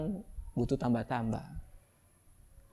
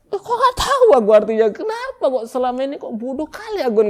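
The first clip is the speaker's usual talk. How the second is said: high, loud self-pitying cry; mock wailing; 10 semitones higher, 10 dB louder than usual. Preacher acts a confused worshipper scolding himself, loud. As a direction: lament it, overdone. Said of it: "Kan gitu".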